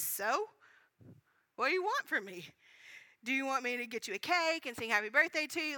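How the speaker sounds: mock-crabby friend with a rising, challenging "So"; crabby, sassy. Friend brushes off the birthday woman, crabby and sassy. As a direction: lightly act out a sassy brush-off. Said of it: "her friend's response is so crabby".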